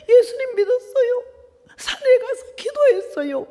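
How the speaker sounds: very high, pleading voice; retold tearful confession. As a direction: act out an emotional confession of faith. Tearfully answering the amazed nun. (울먹이듯 높은 목소리로 고백하는 흉내)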